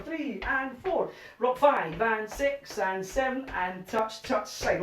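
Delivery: slow rhythmic count calling; dance count calling. Shown as a demonstration. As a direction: call the steps to the beat.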